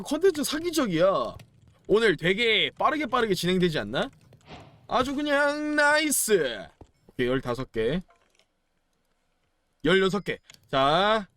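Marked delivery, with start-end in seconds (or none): 4.9-6.7 high, drawn-out cheer; delighted cheer. Real, not acted. Gamer pleased at quick progress, high drawn-out cheer. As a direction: stretch it out high and gleeful.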